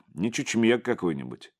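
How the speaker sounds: plain reading voice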